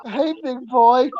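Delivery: lightly voiced, drawn-out flirting; slow, teasing catcall; mock seductive come-on. Prankster in hula skirt to his tentmate, mock flirty.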